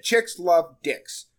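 drawn-out slow advice; kid's dating advice retold, very slow; slow quote. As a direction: lay it down slowly like wisdom. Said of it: "He said".

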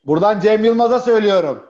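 mock call-out. Guest calling out to the comedian on air, mock-loud. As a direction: call it out like a public message.

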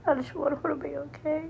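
it spills out fast as she starts crying; voice breaking, real tears. Real, not acted. Worried daughter pleading for her sick mother, crying. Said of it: "my voice is breaking 'cause I'm in tears".

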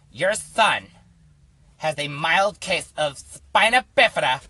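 imitating stepmom. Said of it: "She's like".

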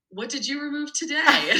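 high-pitched mock little-boy question; imitated eager child. Cooper quizzes mom over the anatomy doll, playfully eager. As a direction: call it out like a kid playing surgeon.

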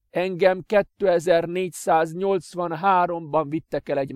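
high, loud, slow bitter confession; bitter master. Acted. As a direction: make him feel the sacrifice. Adrian confesses his fate.

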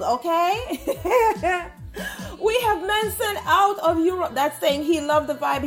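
laughing through the words; chuckling while reading out messages. Real, not acted. Host laughing while reading shout-outs.

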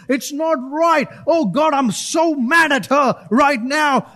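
hammed-up outrage, how dare she; mock indignant rant. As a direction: play the offended believer, half in jest. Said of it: "you're like".

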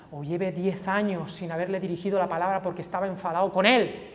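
soft, low confiding sermon; hushed preaching. Acted. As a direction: draw them in with a near whisper. Quiet intimate preaching close. (predicación íntima y susurrada)

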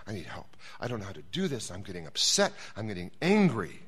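a stuck preacher's quiet plea to God; desperate prayer. Retold or imitated. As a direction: pray it under your breath, helpless.

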